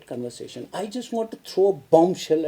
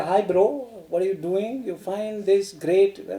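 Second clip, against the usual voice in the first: casual slang. Shown as a demonstration. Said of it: "It's a canteen language".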